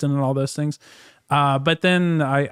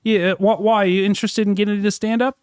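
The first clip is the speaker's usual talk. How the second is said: put-on Australian accent; 2 semitones higher than usual. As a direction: speak in a faked Australian accent. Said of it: "continued the Australian accent for two hours".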